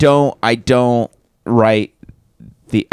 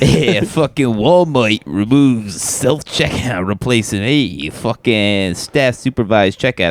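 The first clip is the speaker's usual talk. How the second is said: put-on Walmart joke in a New York accent; slower than usual. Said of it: "Can you do it again in a New York accent?".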